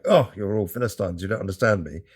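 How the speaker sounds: mildly hammed-up indignation; mock indignant. Composer storming out past the audience, mock indignant. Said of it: "trying to be indignant".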